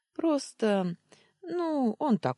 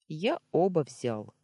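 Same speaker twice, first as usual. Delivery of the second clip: guilty; 3 semitones higher, 4 dB louder, slower than usual. Acted. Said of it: "виновато отозвался Даня".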